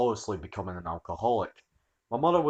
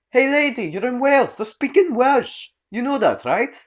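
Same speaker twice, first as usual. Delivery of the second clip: calling out across room; 8 dB louder than usual. Acted. Customer calling across shop.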